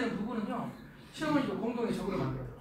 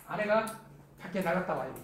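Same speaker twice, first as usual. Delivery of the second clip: ordinary talk, nothing marked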